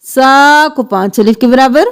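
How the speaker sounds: slow, melodic tajweed chanting; Quran recitation. Acted. Teacher chanting the verses for students, melodic recitation. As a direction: intone each verse with care.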